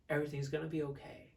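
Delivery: easy, calm reassurance; relaxed. Shown as a demonstration. Coach contrasting a relaxed tone with enthusiasm, relaxed. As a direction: reassure gently, without any push. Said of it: "It's a relaxed tone".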